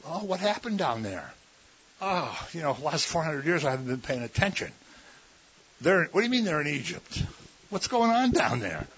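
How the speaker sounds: high, soft, quick bewildered voice; mock clueless God. Preacher mocking a God who never noticed Egypt, quick and high. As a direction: play God as oblivious and surprised. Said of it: "That doesn't mean God said".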